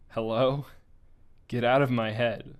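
sobbing yell into the radio. Acted. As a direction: shout it through tears. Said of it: "even if it was currently yelling at me".

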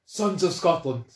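a hint of a Braveheart Scottish accent, slow; Scottish rallying speech. A touch of Scottish accent, host performing Braveheart speech. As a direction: declaim in a Scottish hero voice. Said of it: "In my most Scottish accent".

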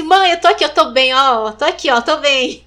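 calling out Mãe, I'm here and fine; telling her anxious mother loudly that she is fine; loud reassurance. Retold or imitated.

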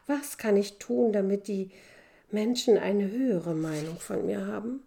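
put-on a desperate boy begging for help; pleading young man. Youth pleads with master. (flehender junger Mann)

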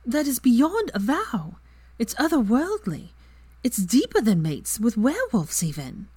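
slow, dreamy, lightly voiced; dreamy sigh. A narrator's reading. Ginny gushing to Hermione about soulmates, slow and dreamy. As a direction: let it drift as if in a daydream. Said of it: "Ginny sighed dreamily".

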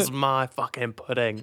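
put-on half-committed slow Scottish accent; badly faked Scottish, drawn out; awful Scottish accent. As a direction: attempt a Scottish accent and only half manage it. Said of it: "That was not a Scottish accent".

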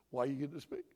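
low, controlled parent voice; methodical. Acted. Dad questioning his child before a spanking, calm and methodical. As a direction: question the child calmly, without emotion. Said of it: "it's very methodical".

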